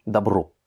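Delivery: "Добро" said da-BRO, falling at the end; unstressed O as A. Shown as a demonstration. Teacher repeats the word after the rule, reduced first vowel. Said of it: "va se prononcer comme un A".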